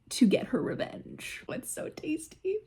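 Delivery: breathy hushed relish, high; gleeful whisper. Real, not acted. To viewers about the book, a delighted whisper. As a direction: savor it in a whisper.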